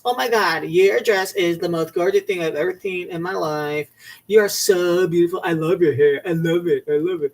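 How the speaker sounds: over-the-top gushing compliments; gushing fan voice. Retold or imitated. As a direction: gush like a starstruck fan. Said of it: "kissing your ass".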